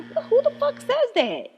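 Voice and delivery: shrill, slow, loud incredulous cry; outraged disbelief. Retold or imitated. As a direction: hit it high and loud, stretched out in shock. Outraged retort to rude hair comment.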